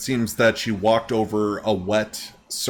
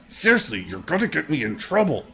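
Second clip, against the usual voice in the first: lightly acted higher-pitched protest; worried bystander; 5 semitones higher than usual. Bystander to noisy Steve, mildly pleading higher voice. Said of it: "the gentleman that's next to him just be like".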